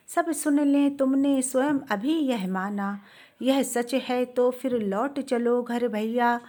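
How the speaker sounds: slow, measured verse reading; unhurried, metrical poem recital; poetry recitation. Acted. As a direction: recite the Hindi verse slowly, line by line. Recites verse before explaining it.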